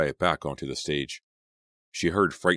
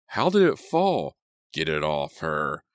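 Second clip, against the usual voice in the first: put-on panicked kid; 4 dB louder than usual. Panicked kid shouts at the others around the body. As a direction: shout over the crowd in panic.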